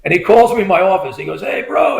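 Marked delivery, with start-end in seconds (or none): 1.4-2.0 high-pitched phone greeting; higher, eager mock hello; retold excited friend. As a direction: imitate a buddy calling in a rush. Friend calls while rushing to lunch.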